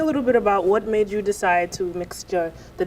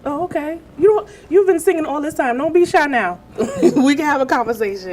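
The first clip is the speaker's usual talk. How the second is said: laughing while teasing the guest, louder and higher; 6 semitones higher, 5 dB louder than usual. Real, not acted. Host laughing as she teases the shy guest.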